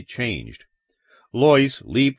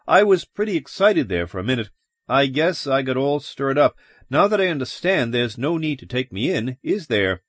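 quick, high, relieved chatter; nervously relieved; 4 semitones higher than usual. Acted. Man asking cops not to take him in, nervously relieved. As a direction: rattle it off, easing down at the end.

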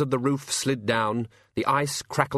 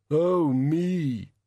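groaning; 5 semitones higher than usual. A narrator's reading. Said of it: "heard the groan again".

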